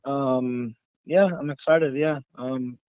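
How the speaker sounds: tired, half-hearted enthusiasm; unenthused, tired. Real, not acted. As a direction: say you're excited with little energy behind it. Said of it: "You sound excited".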